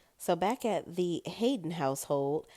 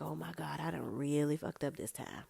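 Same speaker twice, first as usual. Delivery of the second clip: mock dismay; 7 dB quieter than usual. Danny alone with her head in her hands, dismayed. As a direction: groan it to yourself, quietly. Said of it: "she is going through it".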